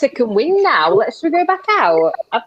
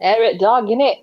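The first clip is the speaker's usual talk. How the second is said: mock Yorkshire accent; 3 semitones lower than usual. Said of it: "I'm trying to sound more Yorkshire".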